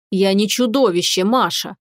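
plain reading voice

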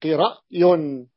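قرأي pronounced very slowly, each sound clear; slow model word. Shown as a demonstration. Teacher repeating the built word قرأي slowly for students. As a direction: draw out قرأي for the class. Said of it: "فقلت".

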